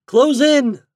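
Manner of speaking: high, loud battle cry; cried command. A narrator's reading. Captain to his attacking boys, crying out the order. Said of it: "cried Captain Reddy".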